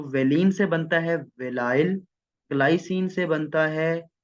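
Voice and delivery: slow, deliberate naming of amino acids; measured dictation pace; slow teaching demo. Shown as a demonstration. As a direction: spell it out slowly for students. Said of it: "pronounce किस तरह करना है".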